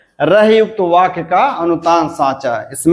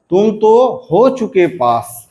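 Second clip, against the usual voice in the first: "तुम तो" higher, falling through "हो चुके पास"; intonation demo; 4 semitones higher than usual. Shown as a demonstration. Teacher giving an example sentence with its tune. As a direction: start high on "तुम" and fall away to "pass". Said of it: "जैसे".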